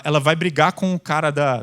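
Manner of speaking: ordinary delivery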